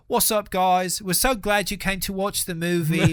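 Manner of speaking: high, loud, eager movie-star greeting; peppy celebrity promo impression; Tom Holland. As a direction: gush a thank-you to the cinema audience. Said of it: "clip of Tom Holland being like".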